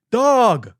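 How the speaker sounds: high, loud, strained voice of a lost driver; a panicked, high-pitched delivery guy; confused delivery driver. Retold or imitated. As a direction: play the flustered driver on the phone. Driver repeating himself.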